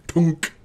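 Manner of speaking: short, loud "punk" for a slap; imitated thwack. Game master mimics a blade slapping a forehead, imitated thwack. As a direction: pop it out like a smack.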